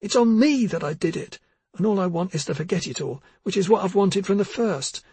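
high, rising tearful insistence. Acted. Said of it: "Missa's voice grew louder".

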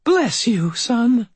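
put-on high, slow old woman's voice; firm old lady conviction; old landlady. Landlady answers the knight, high and slow.

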